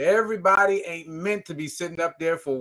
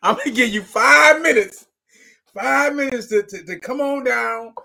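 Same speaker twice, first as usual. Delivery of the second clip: quick auctioneer-style countdown, raised higher; 5 semitones higher, 3 dB louder than usual. Retold or imitated. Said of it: "they like an auctioneer now".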